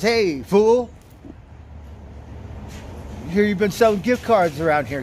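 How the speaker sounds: a street-tough chef barking at the teller; mock tough chef. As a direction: call him out like a cocky chef. Chef confronting the teller outside.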